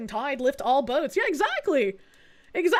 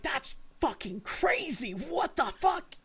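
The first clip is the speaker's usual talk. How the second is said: stunned disbelief; 9 dB quieter, slower than usual. Retold or imitated. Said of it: "And I was like".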